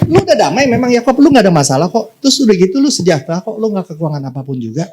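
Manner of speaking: a lightly voiced God confronting Jacob; God speaking. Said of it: "kata Tuhan".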